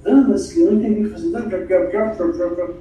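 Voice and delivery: slurred, garbled mumble demonstrating bad diction; imitating someone with muddy articulation; poor diction. Shown as a demonstration. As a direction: slur "não entendi o que você tá" into unclear syllables. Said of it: "a dicção ruim".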